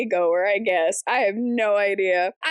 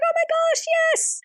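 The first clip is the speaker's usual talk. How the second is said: squealed high and delighted, imitating her; a hammed-up squeal of recognition; high mock gasp. Mimicking the maid's thrilled realization, high squeal. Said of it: "she's like".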